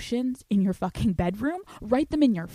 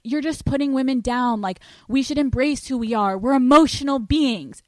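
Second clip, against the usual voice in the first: whiny critic voice; 4 semitones higher, 5 dB louder than usual. Retold or imitated. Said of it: "people are gonna be like".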